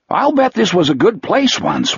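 a hint of simple wonder; Wolf, dreamy.

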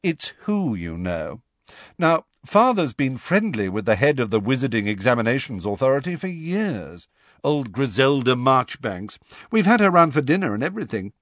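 lightly voiced smug boy, bragging; smug schoolboy. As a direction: drop names with lazy pride. Draco boasting to cronies.

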